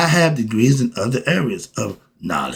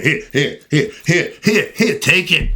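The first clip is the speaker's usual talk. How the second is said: playful offering; 3 semitones higher than usual. Acted. Handing out knowledge playfully.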